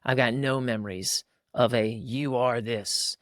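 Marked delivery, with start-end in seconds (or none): 1.9-3.2 slow, deliberate "You are this"; "You are this" drawn out like a verdict; weighty pronouncement. Acted. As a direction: spell out "You are this" word by word. Voices a labelling parent's verdict.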